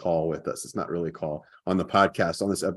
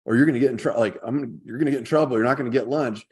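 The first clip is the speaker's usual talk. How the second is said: mock stern mom; 5 semitones higher than usual. Mom scolding Jason at the sink, higher stern voice. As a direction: lightly act a mom losing patience. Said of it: "And he's like".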